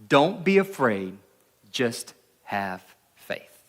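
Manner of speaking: measured Bible reading to the congregation; scripture reading. Acted. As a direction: read the passage steadily, like a lesson from the pulpit. Reads the Gospel passage aloud.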